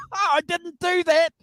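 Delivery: high squeaky chipmunk voice; helium voice. Real, not acted. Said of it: "You're on helium".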